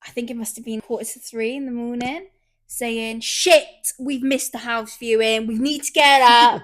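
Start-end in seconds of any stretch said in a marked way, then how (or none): 3.2-6.6 urgent, slowing then loud panic; panicked wake-up. Retold or imitated. Waking partner at three am, mock panic. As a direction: sound the alarm, half asleep. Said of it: "woke me up in a panic".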